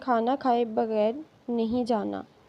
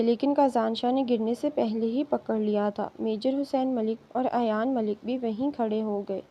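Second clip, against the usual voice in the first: ordinary delivery, nothing marked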